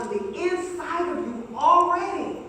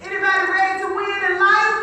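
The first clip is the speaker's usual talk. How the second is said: excited hype; 6 semitones higher, 8 dB louder, much faster than usual. Acted. Hyping crowd to answer.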